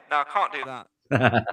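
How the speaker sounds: normal talking voice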